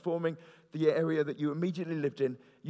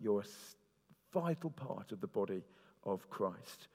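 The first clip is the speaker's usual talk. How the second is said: softer, lower, as if speaking to one person; earnest personal encouragement; 5 semitones lower, 7 dB quieter than usual. Acted. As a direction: drop the voice and reassure them personally. Imagined one-to-one encouragement to each listener.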